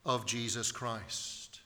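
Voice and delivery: ordinary talk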